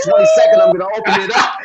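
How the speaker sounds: high, loud wrestling promo yell; promo shout. Acted.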